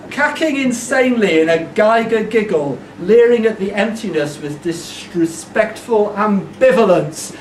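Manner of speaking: emphatic poem delivery; performed verse with weighted words; poetry recital. Acted. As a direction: declaim the lines to a crowd.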